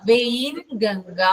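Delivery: very slow, spelling out വെയിൻഗംഗ syllable by syllable; teacher slows down for a student taking notes; slow dictation. Shown as a demonstration. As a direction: stretch വെയിൻഗംഗ out slowly so students can write it. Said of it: "വെയിൻ കേട്ടോ".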